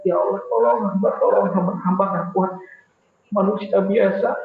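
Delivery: memelas lebih tinggi dan keras; memohon merendah. Acted. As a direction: merintih minta tolong pada Allah, lebih tinggi. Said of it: "memohonnya tuh dengan, dengan sangat gitu, merendah banget". (doa memelas sambil merendah diri)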